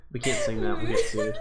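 talking through laughing sobs; laugh-crying, high and breathless. Real, not acted. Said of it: "It's me cry singing".

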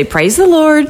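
coaxing a bird. Retold or imitated. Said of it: "trying to get it to say".

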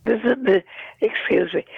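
rough morning voice, catching in the throat; hoarse, throat not yet cleared. Real, not acted. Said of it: "my morning voice here".

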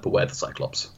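breathy unvoiced whisper, secretive and ominous; whispered warning. Officer whispering in Will's ear as a final warning, hushed whisper. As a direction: lean in and whisper it like a dire secret. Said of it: "whispers in his ear and goes like".

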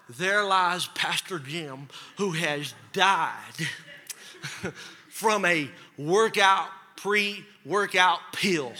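slow, low mock-solemn epitaph through a laugh; mock funeral voice, laughing; mock eulogy. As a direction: intone it like your own funeral, cracking up. Imagining own funeral epitaph, laughing.

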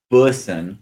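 "Bussin" slow, with short oo; careful pronunciation. Shown as a demonstration. Host practising the surname with the guest, "Bussin" carefully as BUUS-in. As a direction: set "Bussin" apart as BUUS-in. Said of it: "I will say it slower now".

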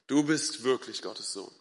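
soft, low reverent repeat; subdued, awed confession; hushed awe. A narrator's reading. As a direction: repeat it quietly, letting it sink in.

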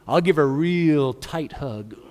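slow, grudging mock threat; mock menace. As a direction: drag it out as a veiled threat. Acted grudging threat to sister.

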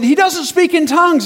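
imitated loud street-preacher argument; accusing retort. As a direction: fire the charge back at the objector. Preacher argues back.

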